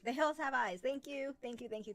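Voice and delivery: the forgotten name found at last; excited recognition. Real, not acted. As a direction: blurt it out as it suddenly comes back to you. Suddenly gets the forgotten title.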